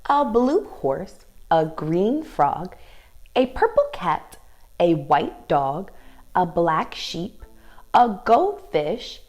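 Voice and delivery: sing-song picture-book read, slow and lilting; reading to children. Acted. Teacher reading the book aloud to her young dance class, sing-song storytime.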